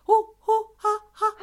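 high, loud swooping hoots; ghostly whooping. Retold or imitated. Retelling the voices that swirled round the bed, high whooping. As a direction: whoop like forty voices circling. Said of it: "She explained it to me at the time like".

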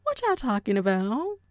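friendly casual question, gently rising end; easygoing, friendly curiosity. Shown as a demonstration. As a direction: ask it like chatting with pals. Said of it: "It can sound so friendly".

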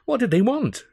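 put-on high young lad's voice; Freddy voice. A narrator's reading. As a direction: pitch it up for Freddy.

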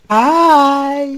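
put-on female New York Jewish accent; high-pitched New York Jewish lady. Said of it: "female New York Jewish accent?".

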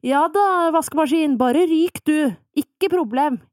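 cocky relief at a broken washer; smug inner voice. Pretend. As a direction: gloat like nothing can touch you. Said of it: "får meg til å tenke sånn".

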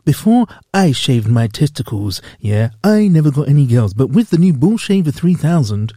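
cheesy ad voice. Pretend. Mock ad read.

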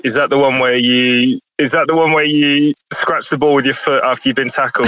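chuckling through a retold question; laughing retold question. Caller laughing as he retells his question. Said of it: "and I said".

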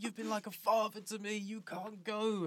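sincere emotional line ending in a falling "go"; mock tender farewell. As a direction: play it as a heartfelt goodbye. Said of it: "It was meant to be one of those scenes like".

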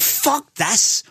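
high-pitched mock exasperation; acted disgust. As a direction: reject it in hammed-up disgust. Acted disgust at the hard seat.

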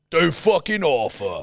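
put-on slow British gangster accent; mock gangster accent. Setting another line to copy, slow British gangster accent. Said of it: "I can impersonate it flawlessly".

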